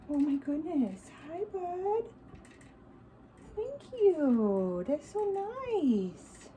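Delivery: soft, high cooing to the hedgehogs; pet baby talk. Acted. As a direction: coo gently at the pets like talking to a baby.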